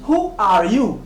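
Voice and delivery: "Who are you" slowly, word by word, "Who" as "hoo"; model pronunciation. Shown as a demonstration. Teacher asking learners to repeat, model pronunciation. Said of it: "Prononcez bien après moi".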